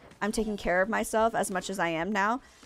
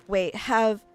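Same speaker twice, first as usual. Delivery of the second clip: usual speaking voice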